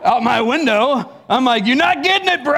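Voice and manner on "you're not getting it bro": mock exasperated jab. Retold taunt out the window.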